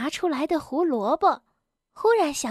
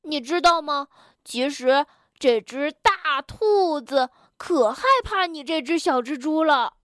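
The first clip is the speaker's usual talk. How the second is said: teasing. Acted. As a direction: poke fun, stretching the middle. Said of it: "跳跳取笑蹦蹦说". (取笑地拖着腔说)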